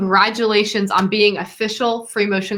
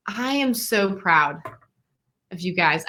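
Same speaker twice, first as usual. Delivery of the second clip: heartfelt and sincere; 3 semitones lower, 4 dB quieter, slower than usual. Real, not acted. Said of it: "face to camera and say".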